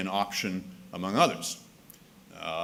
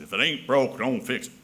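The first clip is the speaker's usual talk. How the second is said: light Southern accent; 2 semitones higher, 4 dB louder than usual. Shown as a demonstration. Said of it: "give that a Southern accent".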